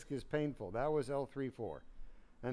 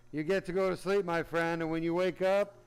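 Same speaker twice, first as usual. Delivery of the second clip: loud reassurance; 3 semitones higher, 5 dB louder than usual. Real, not acted. Sends patient to sleep.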